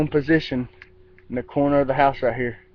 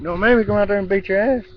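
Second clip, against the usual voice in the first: raised, higher-pitched warning; mock threat; 6 semitones higher than usual. Warning an intruder outside, mock threat. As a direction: threaten someone off in mock anger. Acted threat called at someone.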